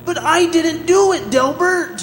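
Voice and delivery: high, loud cry of innocence; desperate cry. Acted. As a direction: beg him to believe you. Innocent prisoner pleads with lawyer.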